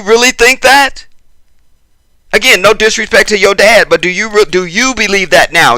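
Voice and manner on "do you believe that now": "you" picked out with emphasis; stress on you. Real, not acted. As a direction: lean on "you" to single out the listener. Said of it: "You. Let's forget your father".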